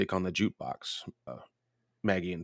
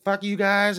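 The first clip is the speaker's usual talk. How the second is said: mock old lady; 12 semitones higher, 5 dB louder, slower than usual. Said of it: "she's like".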